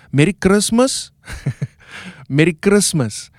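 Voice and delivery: "Merry Christmas" with a rolled R, Cape Town style; Cape Town accent. Shown as a demonstration. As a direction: roll the R in "Christmas". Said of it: "take your R and you want to roll it".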